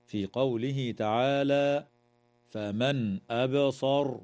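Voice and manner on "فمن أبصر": "أبصر" slowly, the baa bouncing with a slight echo; slow recitation with the baa in "أبصر" echoing; recited with qalqala. Shown as a demonstration. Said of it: "وتقلقل الباء في كلمة أبصر".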